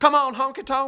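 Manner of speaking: loud, very high heckling. Remembering an eighties wrestling figure with a megaphone: Jimmy the Mouth of the South impression. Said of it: "you would have to hear his voice".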